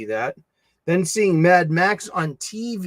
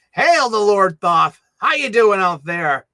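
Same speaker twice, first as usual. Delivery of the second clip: booming greeting to a chatter; hearty hail; 3 semitones higher, 6 dB louder than usual. Real, not acted. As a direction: hail him like a herald.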